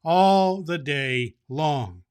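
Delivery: high, loud jolly ho-ho-ho laugh. Acted. Claus laughing in the Laughing Valley, big jolly laugh. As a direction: laugh it out like a merry Santa.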